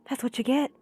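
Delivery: menacing whisper; whispered menace. Acted. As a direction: hiss it as a threat. Retake of villain line.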